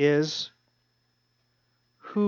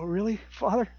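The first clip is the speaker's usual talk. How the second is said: awed soft question; 3 semitones higher, 6 dB quieter than usual. Pretend. Imagined reply to the Lord.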